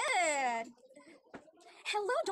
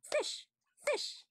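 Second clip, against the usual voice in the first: modelling words; 10 semitones higher than usual. Shown as a demonstration.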